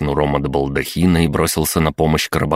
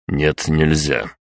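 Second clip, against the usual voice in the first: curt refusal; slower than usual. Acted. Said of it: "отрезал я".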